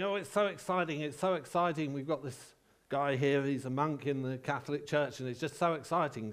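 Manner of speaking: gushing host, lightly imitated; a hint of an excitable Geordie presenter; mock-excited introduction in a light impression; Geordie singer-presenter. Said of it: "her manner is a bit like a sort of Geordie singer-presenter".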